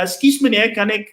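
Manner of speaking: put-on a light Afrikaans accent, overly polite. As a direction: ask politely, like a South African farm boy in Afrikaans. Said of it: "almost like Afrikaans".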